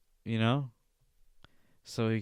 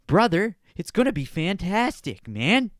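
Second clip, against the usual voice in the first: much louder, higher excited repeat; hyped shout; 6 semitones higher, 7 dB louder than usual. Real, not acted. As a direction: pump it up like a hype man. Hyping the podcast, repeated louder.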